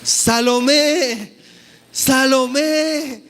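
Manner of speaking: put-on long, drawn-out call for a lost child; retold calling out. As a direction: call out a name, holding the last vowel. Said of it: "comenzó a llorar y a gritar".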